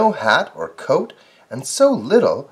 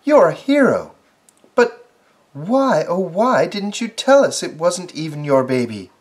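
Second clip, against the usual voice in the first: neighbours; 5 semitones higher, 3 dB louder than usual. Acted. Neighbours question badger.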